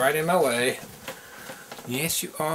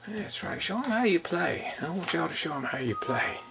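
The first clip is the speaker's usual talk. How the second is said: high, hushed pet talk; soft coaxing; 4 semitones higher, 7 dB quieter than usual. Real, not acted. Owner urges puppies to show how they play, softly coaxing. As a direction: coax gently in a small, soft, raised voice.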